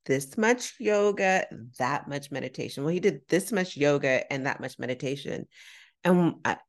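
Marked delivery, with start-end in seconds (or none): 0.0-2.8 simplified for non-English speaker. Retold or imitated. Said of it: "he didn't speak much English".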